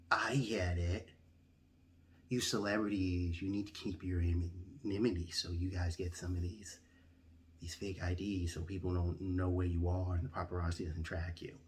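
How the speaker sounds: hushed, conspiratorial whisper. Retold or imitated. DMV clerk whispering to a celebrity, hushed conspiratorial whisper. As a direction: lean in and whisper the secret. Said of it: "So he starts whispering".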